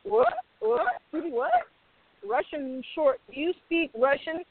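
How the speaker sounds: playing astonished producers; mock surprise. Surprised execs, retold.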